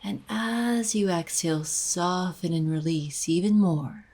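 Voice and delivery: unhurried guided meditation voice, long pauses between phrases. Acted. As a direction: gently guide the listener into breathing and release.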